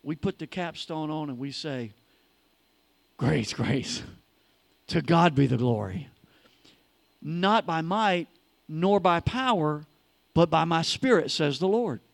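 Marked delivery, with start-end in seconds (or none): 3.2-4.0 reverent recitation. Acted. Reciting a scripture line. 4.9-6.1 low hushed "To God be the glory"; reverent, lower. Acted. Reverent first take. 7.2-12.0 reverent recitation. Acted. Reciting a scripture line.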